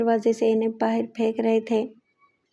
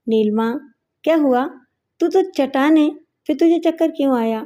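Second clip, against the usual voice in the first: worried; 4 semitones higher than usual. Acted. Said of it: "پریشان ہو کر بولا".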